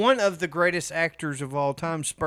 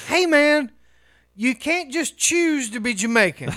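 raised, loud and high; loud mock scolding; 7 semitones higher, 5 dB louder than usual. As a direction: call him out, loud and mocking. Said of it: "You know, like".

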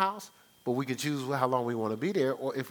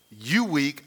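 harsh put-down; 4 dB louder than usual. Shown as a demonstration. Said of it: "I won't say it like".

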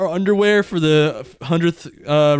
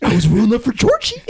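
high, loud, taunting clown voice; creepy clown voice; 6 semitones higher, 5 dB louder than usual. Pretend. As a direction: coax the child like a creepy clown. Clown impression continues.

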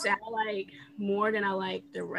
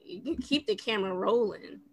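underwater. Real, not acted. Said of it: "why you sound like you're underwater".

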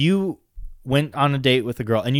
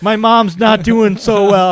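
mock inaudible friend; 8 semitones higher, 6 dB louder, slower than usual. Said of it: "You're like".

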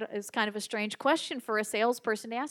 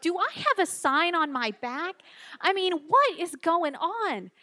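higher-pitched, comically baffled protest; mock exasperation; 6 semitones higher, 3 dB louder than usual. Speaker wondering why strangers keep asking, mock exasperation. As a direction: play up the bewilderment for the audience. Exasperated thought after repeated question.

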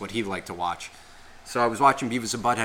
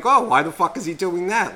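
higher, louder mock disbelief; mock bewildered reaction; 7 semitones higher, 5 dB louder than usual. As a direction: exclaim it like a baffled kid watching TV. Acting out his younger amused reaction.

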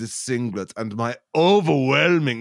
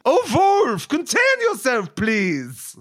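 panicked Isaac; 11 semitones higher than usual. Acted. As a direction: chase after the kitty cats. Isaac panics for his cats.

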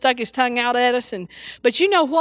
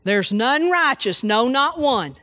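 mock condemning preacher; slower than usual. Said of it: "how many times ... that was preached this Sunday".

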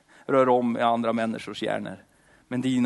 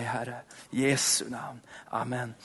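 whispered amen; 7 dB quieter than usual. Acted. Closing whisper of the prayer.

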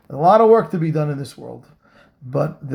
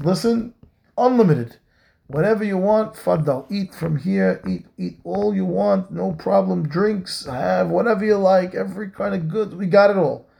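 generous host; 4 semitones higher than usual. Retold or imitated. Host urging guests to eat.

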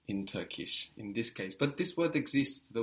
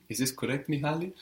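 rising, checking tone, put on; mimicked doubtful question; imitating unsure question; 4 semitones higher, faster than usual. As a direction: act out a learner asking for confirmation. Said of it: "because you're asking me".

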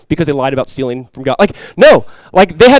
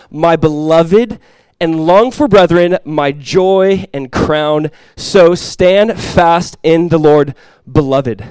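scripture reading; 3 dB louder, much slower than usual. Acted. Reads scripture slowly.

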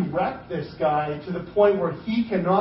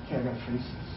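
resolved; 7 semitones lower, 12 dB quieter, faster than usual. Retold or imitated. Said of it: "he says".

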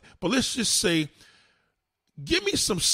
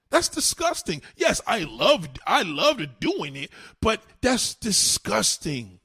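slow, high, dragged-out disgust; drawn-out disgust; 4 semitones higher, slower than usual. Real, not acted. Confessing to the audience, slow stretched disgust. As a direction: stretch every word like it tastes bad.

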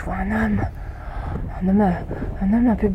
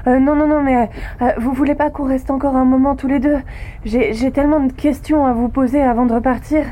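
pleading; 4 semitones higher than usual. Acted. Begging robot not to call others.

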